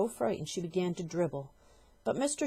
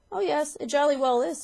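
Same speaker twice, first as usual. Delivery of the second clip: high, loud, gleeful insistence; gleeful husband; 9 semitones higher, 9 dB louder than usual. Acted. Husband insisting she is shrinking, gleeful and loud. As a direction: rub it in with relish. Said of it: "said Mister Twit".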